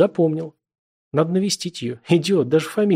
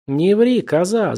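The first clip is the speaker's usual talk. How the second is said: shouting; 6 semitones higher, slower than usual. A narrator's reading. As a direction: yell it at her, furious. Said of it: "закричал он".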